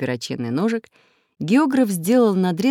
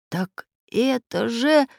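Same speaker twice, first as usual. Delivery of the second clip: exclaimed; 7 semitones higher, slower than usual. Acted. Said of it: "выкрикнул профессор Пыхтелкин".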